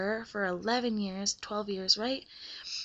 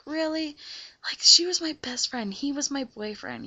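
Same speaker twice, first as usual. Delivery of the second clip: indignant disbelief; 5 semitones higher, 4 dB louder than usual. Retold or imitated. Betrayed by friend and boyfriend.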